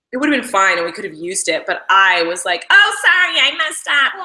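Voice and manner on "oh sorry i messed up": higher and louder blurted sorry; flustered apology. Retold or imitated. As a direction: blurt it out, caught off guard. Retold breaking character.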